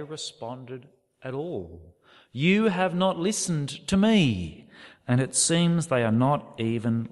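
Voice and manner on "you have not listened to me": louder, pressing hard on each word; forceful rebuke. Acted. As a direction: drive the rebuke home with force. God's rebuke repeated forcefully.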